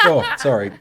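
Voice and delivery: spluttering tea mid-laugh; sputtering laugh, tea sprayed; spitting out a drink. Real, not acted. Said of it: "Spit take from the tea there".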